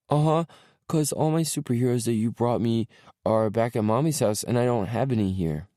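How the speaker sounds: put-on high, eager little boy. A narrator's reading. Small boy telling dad his toys are at mommy's, little boy voice.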